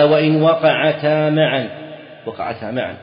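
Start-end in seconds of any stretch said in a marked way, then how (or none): 0.0-1.7 slow, emphatic recitation of the matn, louder and higher; reading the text aloud. Shown as a demonstration. Sheikh reading the legal text to his students, slow and emphatic. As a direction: read each word out deliberately to the class. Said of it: "قال".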